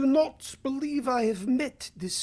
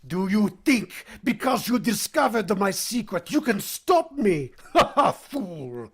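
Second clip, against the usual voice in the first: gloating laugh. Acted.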